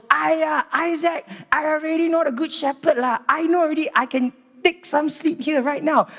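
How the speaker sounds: high, bored mock listener brushing off the sermon; sleepy churchgoer. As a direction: whine it like a drowsy know-it-all in the pew. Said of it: "if you sit there and you go".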